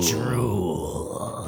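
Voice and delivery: low, drawn-out menacing growl of the name; deep villain echo. Acted.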